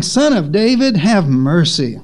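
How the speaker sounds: mildly acted plea; understated imitation of crying out for help.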